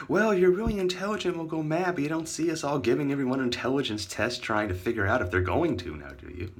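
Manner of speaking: mock others, falling steadily from a high start; mocking imitation.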